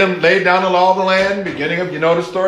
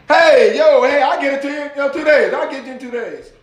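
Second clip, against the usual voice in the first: Fonz; 7 semitones higher than usual. Retold or imitated. Student casually promising the professor his paper, comfortable cool-guy impression. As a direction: imitate a breezy, too-comfortable student. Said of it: "like, I'm just comfortable".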